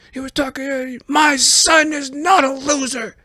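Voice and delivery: high, squeaky, rambling story; a muddled cartoon-high Biden getting worked up; high parody voice stumbling over the memorial story; mocking Biden rant. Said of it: "Joe Biden, he went in".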